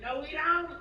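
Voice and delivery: high mock mother denying; boozy mom. Derry's mom insisting her boy is Irish, high mock voice. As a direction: squeal out the denial, pitched high. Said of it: "And she said".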